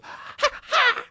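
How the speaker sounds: high yelping dog noise. Retold or imitated. The dog yelping when his back is petted. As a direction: yelp it like a hurt dog. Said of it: "all of a sudden he goes".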